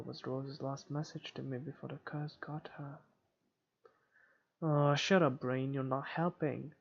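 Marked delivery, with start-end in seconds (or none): 4.6-6.7 louder, exasperated outburst. Acted. Scolding their own brain for not helping, exasperated. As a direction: snap loudly at yourself.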